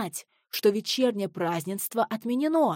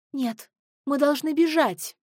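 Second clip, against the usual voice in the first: higher, mild shout from the crowd; 7 semitones higher, 3 dB louder than usual. A narrator's reading. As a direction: call out to flee. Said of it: "прокричал кто-то". (выкрикнуто)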